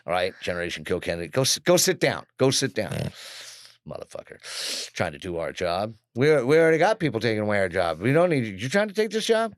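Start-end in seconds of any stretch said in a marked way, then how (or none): 1.3-9.5 louder, higher irritated border agent; mock angry agent. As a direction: brush him off like a fed-up agent. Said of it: "I can hear the whole conversation now".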